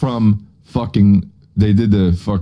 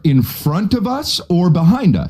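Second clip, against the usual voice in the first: higher, slow, condescending explaining; mock pedantic lecture; 7 semitones higher than usual. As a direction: talk down like a smug teacher.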